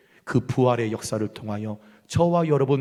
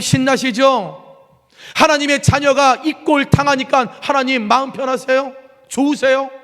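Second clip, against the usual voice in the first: sulky reproachful questions climbing higher; petulant complaint to God; 7 semitones higher, 4 dB louder than usual. Acted. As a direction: needle God like a hurt child. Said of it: "하나님 앞에 투정하는 거예요".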